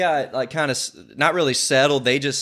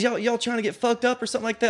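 higher, softer taunting challenge; mock threat; 7 semitones higher, 5 dB quieter, faster than usual. Imitating the stranger picking a fight, high mock threat. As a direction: tease it out like a lightweight tough guy.

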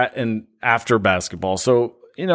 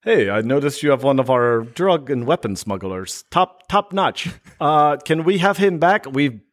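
mock Russian official's accent; 2 semitones higher than usual. Imagined Russian asking Trump for a smuggler back, Russian accent. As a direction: put on a comic Russian accent. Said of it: "if I'm doing a Russian accent".

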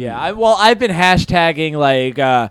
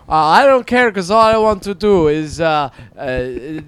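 put-on higher caricatured Asian accent; 4 semitones higher than usual. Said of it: "attempt at a white person's accent".

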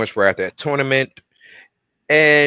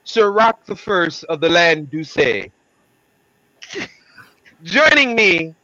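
regal knight voice; 4 semitones higher than usual. Pretend. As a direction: speak like a medieval herald. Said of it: "let me stop talking like that".

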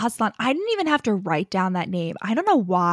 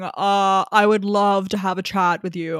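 smooth suave professor; 3 semitones lower than usual. Retold or imitated. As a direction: ease into it like a smooth senior professor. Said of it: "It's more like".

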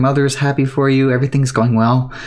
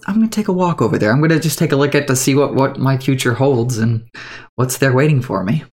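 quick excited muttering to yourself; eager inner thought. Acted. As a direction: rush it out like an excited youngster. Player's imagined thought, quoted.

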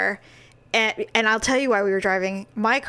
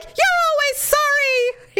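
sarcastic; 3 dB louder, slower than usual. Retold or imitated. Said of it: "I'm like".

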